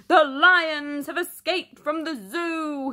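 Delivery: urgent mayor's cry. Acted. The mayor calling for help, alarmed. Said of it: "he cries".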